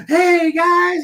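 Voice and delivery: high, eager hey guys; mock cocaine-fueled hustler; eager salesman. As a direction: greet like a hyped-up salesman. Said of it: "boss came running over and was like".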